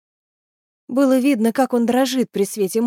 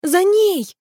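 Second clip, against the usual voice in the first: high urging shout; exclamation; 10 semitones higher, 3 dB louder than usual. A narrator's reading. Kelly sending the river horse after banshee, high shout. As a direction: urge the charge with a high cry. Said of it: "воскликнул Келли".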